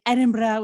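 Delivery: "Edinburgh" as ED-in-brah with fake rolled R; self-mocking fake-Scottish "Edinburgh". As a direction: put a phoney Scottish R in "Edinburgh". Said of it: "with my, like, fake stupid R's".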